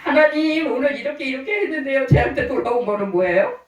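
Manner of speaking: reenacted grievance, mildly plaintive; pleading complaint. Pastor complaining to God, mildly aggrieved. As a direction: plead your case with a touch of protest. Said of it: "하나님 앞에 하소연하는 거예요".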